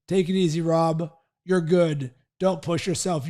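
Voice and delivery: lightly voiced coaxing to let up; self-limiting inner voice. Inner voice telling runner to stop pushing, lightly voiced coaxing. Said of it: "my self-talk goes".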